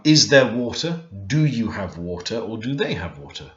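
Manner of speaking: Is there water? rising at the end; question tune. Shown as a demonstration. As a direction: ask it, lifting water. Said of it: "put a question mark on the end".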